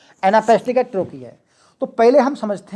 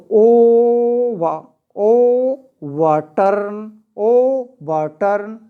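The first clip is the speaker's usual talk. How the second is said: "ओ वाटर्न" drawn out syllable by syllable; slow scansion; 3 dB louder, much slower than usual. Shown as a demonstration. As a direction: stretch "ओ" and "वाटर्न" into separate slow beats. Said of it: "पहले दो unstress हैं, तीसरा syllable जो stressed है". ("ओ वाटर्न" एक-एक हिस्सा खींचकर)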